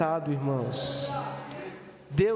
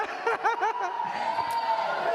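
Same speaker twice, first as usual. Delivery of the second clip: high laugh. Real, not acted. Pastor cracks up.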